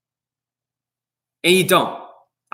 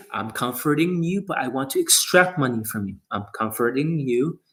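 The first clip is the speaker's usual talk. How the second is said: mock sleazy coach; 4 semitones lower than usual. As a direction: lay on fake comfort with a sneer underneath. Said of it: "It means".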